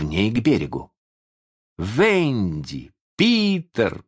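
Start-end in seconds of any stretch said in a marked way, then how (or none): 1.8-4.0 drawn-out calls for missing friends; calling out. A narrator's reading. Boys calling for Венди and Питер, calling out. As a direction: call the names across the water. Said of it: "кричали они всю дорогу".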